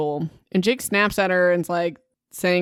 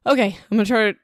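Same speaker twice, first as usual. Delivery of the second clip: trying out a louder level; too loud; 3 semitones higher, 4 dB louder, much faster than usual. Shown as a demonstration. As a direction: push the volume a little for the mic. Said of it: "that's too loud".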